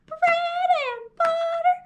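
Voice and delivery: squeaky very high chant; high, playful kids' voice; high silly voice. Shown as a demonstration. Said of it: "Let's use our high, silly voices".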